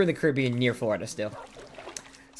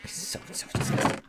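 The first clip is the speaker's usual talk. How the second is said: breathy whisper of disgust; hushed, repulsed whisper; 7 dB quieter than usual. Real, not acted. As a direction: drop to a whisper, grossed out. Repeating disgust about the toenail.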